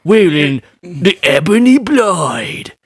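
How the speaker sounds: hammed-up British knight, grandly drawn vowels; Kit Harington. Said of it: "my Kit Harington impersonation".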